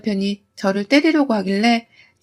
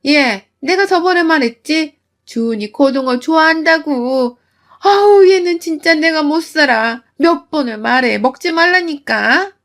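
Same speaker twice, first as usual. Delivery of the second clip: scolding mother-in-law, a touch higher; nagging mother-in-law; 4 semitones higher than usual. Acted. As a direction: nag her like a sharp mother-in-law. (며느리를 나무라는 시어머니, 날카롭게 꾸짖듯)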